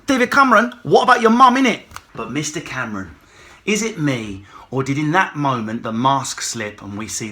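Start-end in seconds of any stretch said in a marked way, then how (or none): 0.1-1.8 higher, loud chav taunt; cheeky wind-up. Pretend. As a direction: taunt like a street kid. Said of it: "Corbyn did wind him up first by saying".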